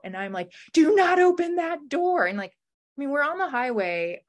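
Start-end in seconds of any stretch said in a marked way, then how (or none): 0.7-2.2 high, loud command; retold shout. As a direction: bark it to stop him. Retold yell at boyfriend.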